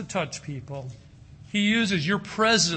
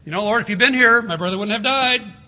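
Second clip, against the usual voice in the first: raised, higher lament to the Lord; grieving reproach; 4 semitones higher, 8 dB louder than usual. Retold or imitated. Sister reproaching Jesus over her dead brother, raised grieving lament. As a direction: cry it out as a grieving sister would. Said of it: "Remember what Mary and Martha said".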